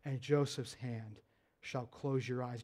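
hushed, low and solemn divine call; voice of God. Acted. God calling to sleeping Jacob, hushed and solemn. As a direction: speak softly and low, like a voice in the night. God's promise continues.

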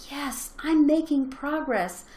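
acted-out touch of jubilation; celebrating.

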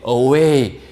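normal talking voice

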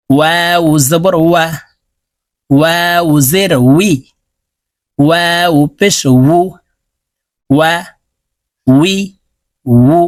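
ওয়া, উই, উ with rounded lips and an open middle; slow Arabic waw syllable drill. Shown as a demonstration. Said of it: "ঠোঁট গোল করে উচ্চারণ করতে হবে".

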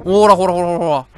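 loud, triumphant "look, look"; eager loud cheering at own move; excited loud calling. Real, not acted. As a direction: shout it out as the piece fits. Piece fits, excited calling.

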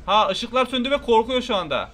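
high, loud excited questions. Real, not acted. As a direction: blurt it out tensely. Tense moment in game.

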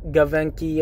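Givenchy mangled as guh-VENK-ee; botched Gavenky with hard G and K; wrong pronunciation. Shown as a demonstration. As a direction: say Gavenky as "guh-ven-kee". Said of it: "or whatever the fuck y'all be saying".

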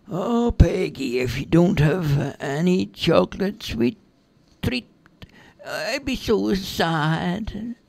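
high, slow, drawn-out fairy voice; wistful little fairy begging for a treat; pleading fairy. Acted. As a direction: plead sadly, stretching the last words.

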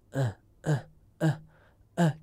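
short, light demonstration coughs; gentle throat-clearing. Shown as a demonstration. Voice teacher showing students how to clear safely, gentle throat-clearing. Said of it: "轻轻的一咳就行了".

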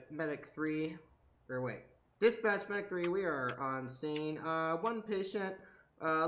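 calm dispatcher radio voice; radio talk. Pretend. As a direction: report in like a medic on the radio. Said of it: "my radio talk".

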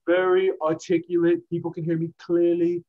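over-articulate like a boasting politician; mock presidential speech, every word drawn out; Donald Trump. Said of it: "Donald Trump, I don't know why".

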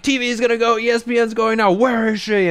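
high-pitched imitated screaming. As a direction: mimic a producer screaming into the headset. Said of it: "just them screaming".

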